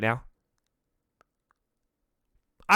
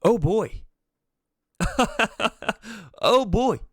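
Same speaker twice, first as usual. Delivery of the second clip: laughing through pain; 5 semitones higher than usual. Real, not acted. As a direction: laugh it off, hurt underneath. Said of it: "And I'm laughing through pain".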